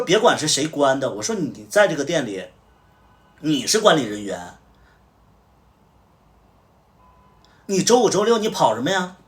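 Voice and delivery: loud, high furious telling-off; retold angry shout at the staffer; angry scolding. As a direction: chew out the employee for leaving his post. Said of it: "我就直接骂了".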